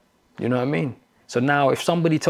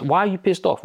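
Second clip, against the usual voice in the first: higher-pitched mock questioning; imitated challenge; 6 semitones higher than usual. Retreat teacher questioning an annoyed man, mock challenge. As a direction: lightly parrot a probing question.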